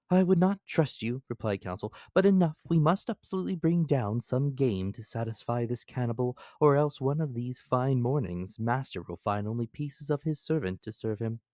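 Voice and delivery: high, urgent servant's voice; Counsel voiced high and loud. A narrator's reading. Counsel urges master about cannibal Ned, high and loud.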